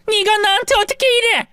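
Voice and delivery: high, stretched 이래 falling; shocked cry. A narrator's reading. Mother crying 네가 나한테 어떻게 이래 at her son. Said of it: "소리를 질렀죠".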